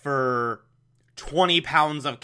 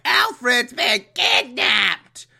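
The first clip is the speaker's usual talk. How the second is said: alarmed report; 9 semitones higher, slower than usual. Retold or imitated. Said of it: "Commissioner's like".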